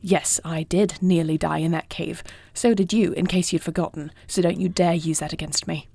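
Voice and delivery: heated argument. Acted. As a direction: push back firmly against a protective partner. Acted quarrel over going to meet.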